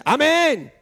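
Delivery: loud, high drawn-out amen; imitated shout. Preacher imitating a man who always yells amen, shouting. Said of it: "él siempre grita y dice".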